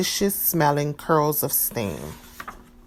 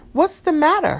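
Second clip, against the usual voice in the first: higher, caring mother's question; concerned mother; 11 semitones higher, 3 dB louder than usual. A narrator's reading. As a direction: ask gently like a worried mom. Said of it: "her mother asked".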